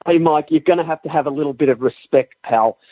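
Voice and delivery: low-pitched mock African-American Southern sister accent; put-on Black Southern accent. Demanding respect from the co-host, mock Black Southern accent. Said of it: "when I'm doing that accent".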